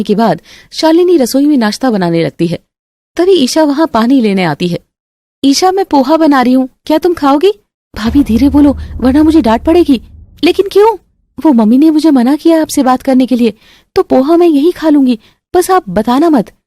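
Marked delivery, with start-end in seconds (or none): 5.4-16.5 put-on lightly raised, secretive girls' voices; young women whispering. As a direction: hush it, don't get caught. Shalini and Isha in kitchen.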